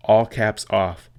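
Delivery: slow, loud, spelled-out command to the iPad; deliberate voice command, slow and loud; slow dictation command. Shown as a demonstration. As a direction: say each word slowly and loudly so the iPad catches it. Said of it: "So for example".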